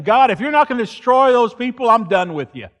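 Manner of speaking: furious prophet issuing God an ultimatum; angry ultimatum. Acted. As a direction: throw down the ultimatum. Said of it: "He gave God an ultimatum".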